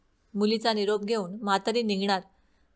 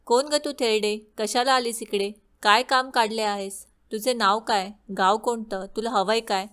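put-on maid scornfully quizzing an old woman, a bit louder; mildly raised, sneering maid; rude questioning; 3 dB louder than usual. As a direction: look down on her and fire off questions. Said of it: "तिने विचारले".

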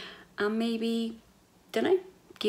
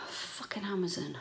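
muttered curse; 6 dB quieter than usual. Real, not acted. Muttered curse at broken headphones.

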